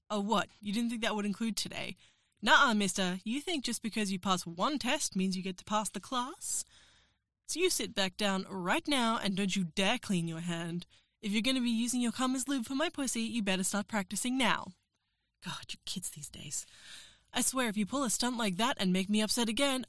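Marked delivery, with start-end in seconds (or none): 2.4-5.2 stern scold. Acted. Scolding him for leaving. 15.4-16.7 whispered aside, much softer; breathy whisper of mock exasperation; exasperated whisper.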